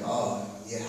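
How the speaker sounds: soft, low, humbled voice; hushed and chastened; subdued reply. Acted. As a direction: answer quietly, as if caught out. Peter answering Jesus, retold humbly.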